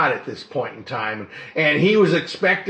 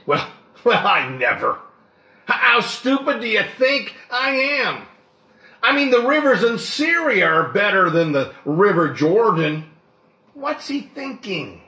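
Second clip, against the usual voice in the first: indignant Naaman; 5 semitones higher than usual. Retold or imitated. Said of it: "Can you see him?".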